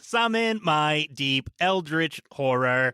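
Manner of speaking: eldritch fridge voice. Acted. GM voices vengeful squid fridge.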